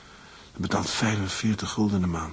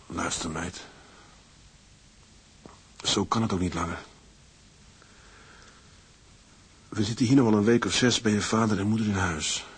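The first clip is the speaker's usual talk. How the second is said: hushed night talk; 6 dB quieter than usual. Acted. Husband to wife in bed at night, hushed. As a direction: keep it down so the house sleeps.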